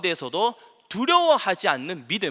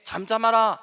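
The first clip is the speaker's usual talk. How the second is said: grand command, pitched up and louder; 예수님; 4 semitones higher, 5 dB louder than usual. Acted. Preacher playing Jesus calming wind and sea, grand command. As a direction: imitate an impressive order to the storm. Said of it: "예수님께서 이렇게 멋있게".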